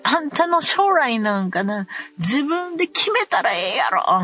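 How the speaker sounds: angry scolding. Retold or imitated. Mother scolding her son mid-fight, angry. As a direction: let him have it.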